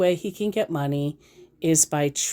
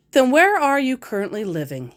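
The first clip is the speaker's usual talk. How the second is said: mock scammer question; 7 semitones higher than usual. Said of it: "he asks".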